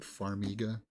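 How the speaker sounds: Farmiga with a long ee, far-MEE-guh; Farmiga as far-MEE-guh, middle syllable drawn out; corrected pronunciation. Shown as a demonstration. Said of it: "that's how they pronounce it".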